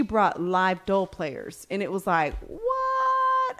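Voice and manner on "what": astonished what. Retold or imitated. Astonished at the live drummers.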